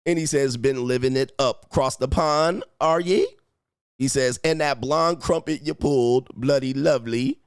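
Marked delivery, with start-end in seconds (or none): 0.6-3.3 light mock-British read; playful amateur British accent. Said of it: "In your British accent". 4.4-7.4 lightly attempted British accent; playful, half-there British accent. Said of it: "In your British accent".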